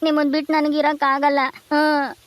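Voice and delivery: acted weepy apology; tearful pleading. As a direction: plead with mother through tears. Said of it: "ಸುಮ್ನಿರು, ಅಳ್ಬೇಡ". (ಅಳುತ್ತಾ ಕ್ಷಮೆ ಕೇಳುವ ಧ್ವನಿ)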